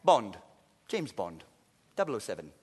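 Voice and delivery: low, cool secret-agent introduction; James Bond intro. Retold or imitated. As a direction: deliver it like a suave spy, deep and quiet. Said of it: "the way he introduces himself".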